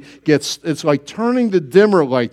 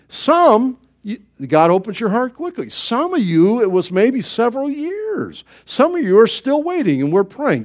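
ordinary delivery

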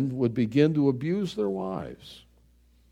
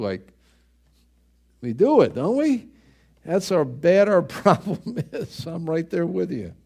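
normal talking voice

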